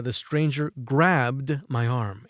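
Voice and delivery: slow, careful reading of the English sentence; slow example sentence. Shown as a demonstration. Teacher reading an example to students, slow and careful. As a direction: read it out slowly for learners. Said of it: "El extranjero, el forastero".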